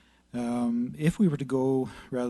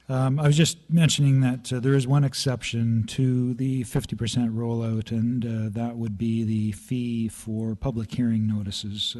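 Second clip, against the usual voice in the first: louder, slower, for the translator; 6 dB louder than usual. Real, not acted. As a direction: spell it out clearly near the mic. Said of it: "Talk slower".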